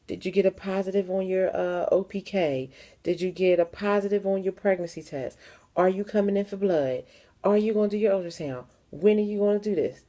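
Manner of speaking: imitating the clinic staff who called every day; nagging clinic caller. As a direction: rattle off the clinic's nagging questions. Mimicking clinic's repeated calls.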